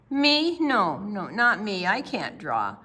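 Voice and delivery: put-on a boy who swears he can't draw; protesting boy. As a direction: push the compliment away. Shy boy protests loudly.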